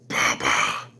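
very low, eerie monster voice saying Papa; low spooky creature voice; creepy monster baby. Retold or imitated. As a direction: growl Papa out deep like a monster child. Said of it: "and say".

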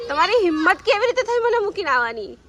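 playful mock anger at husband; mock scolding. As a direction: tease him with fake outrage.

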